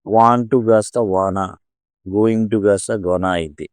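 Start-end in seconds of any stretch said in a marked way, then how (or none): 1.1-1.5 "wanna" with the T sound gone; reduced form. Shown as a demonstration. Teacher shows smooth fast speech, "wanna" as elided form. 3.1-3.3 "gonna" with the T sound gone; reduced form. Shown as a demonstration. Teacher shows dropped sounds, "gonna" as elided form. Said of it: "టా సౌండ్లు తీసేయడం".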